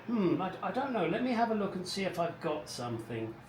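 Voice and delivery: lightly acted innocent hesitation; mild feigned pondering. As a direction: play the obliging husband, pretending to think it over. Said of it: "I would just say".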